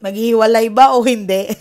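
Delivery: laughing loudly through the teasing question. Real, not acted. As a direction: tease the audience, laughing out loud. Teasing audience about story ending.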